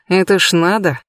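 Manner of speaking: ordinary delivery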